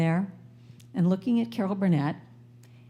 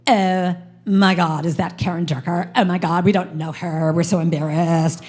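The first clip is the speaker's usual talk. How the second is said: mocking cool girls; 3 semitones lower, 5 dB louder than usual. Cool girls from school mocking her from the audience, loud snooty whine. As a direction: sneer it like embarrassed popular girls. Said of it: "They're going".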